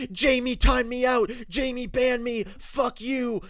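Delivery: high, loud whiny squeal of outrage; mock furious whine. A girlfriend's friend complaining to Paul, hammed-up shrieking whine. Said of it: "got fucking furious and was like".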